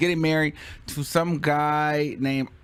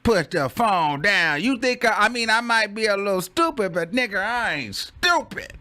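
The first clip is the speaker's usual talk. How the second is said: mock indignation; 6 semitones higher than usual. Man with the phone scoffing at the order, indignant. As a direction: ham up being offended by the order. Acts out scornful refusal.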